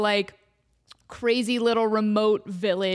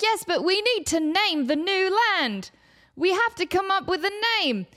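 timid intern; 7 semitones higher than usual. Acted. Intern insists.

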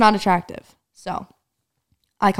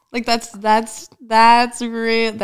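getting worked up; 3 semitones higher, 6 dB louder, much slower than usual. Real, not acted. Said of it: "I'm getting worked up".

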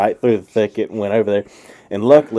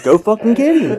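annoyed order; 11 semitones higher, 3 dB louder than usual. Retold or imitated. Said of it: "He's like".

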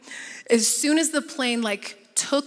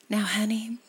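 sweet. Retold or imitated. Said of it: "That's how sweet she was talking to me".

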